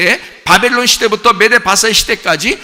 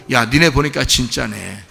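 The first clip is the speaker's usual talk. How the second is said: slow, low, softened imitation of a companion; impressed onlooker; 7 semitones lower, 3 dB quieter than usual. Companion recognising a true believer, low impressed murmur. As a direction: quietly voice dawning respect. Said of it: "세상이 여러분을 보고".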